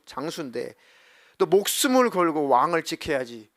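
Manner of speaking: mildly acted telling-off of a negligent guard; retold scolding. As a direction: act out a commander's reprimand, punching key words. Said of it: "아브넬을 막 혼내죠".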